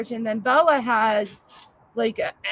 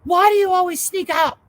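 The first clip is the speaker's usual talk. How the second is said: mimicking daughter; 8 semitones higher, 5 dB louder than usual. Daughter voiced in a story.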